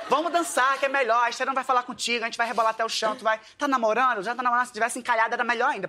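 eager dance teacher pitching hard; hyped sales pitch. Retold or imitated. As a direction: hype them off the treadmill like a fitness host. Pitching dance class at treadmills.

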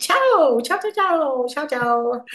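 ciao sung out high in a broad American accent; a chirpy American-accented ciao, ciao; American tourist greeting in American accent. Shown as a demonstration. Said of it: "I do it with an American accent".

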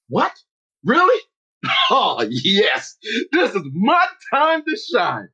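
rising surprise into eager delight; can't believe your luck, then seize it; excited disbelief. Retold or imitated. Player hears he gets his dream position, thrilled.

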